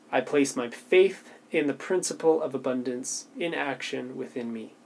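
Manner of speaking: measured, devout reading of an affirmation. Acted. Reading the prosperity affirmation aloud, measured and devout. Reads her daily affirmation.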